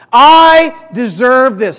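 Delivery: loud, drawn-out declaration; slow, loud rallying line; loud and proud. Shown as a demonstration. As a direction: proclaim it slowly and proudly, for a crowd to repeat. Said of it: "really loud and proud".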